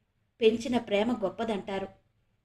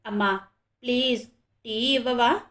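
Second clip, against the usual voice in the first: a light coaxing plea to her mother; gently wheedling daughter. A narrator's reading. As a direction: sweet-talk mum into giving tea. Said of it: "గోముగా అడిగింది".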